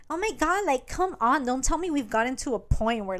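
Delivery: mock guilt-tripping mom complaint; pleading exasperation. Mom to Cade who won't hug her, exasperated pleading.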